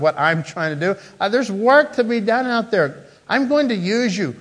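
rousing challenge to a hiding prophet; urgent call. Acted. Preacher voicing God calling Elijah out.

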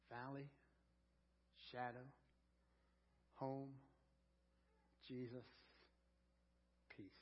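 soft, spaced words trailing into silence; hushed last breaths, softly voiced; final fading words. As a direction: let each word fall away gently. Dying woman's final words.

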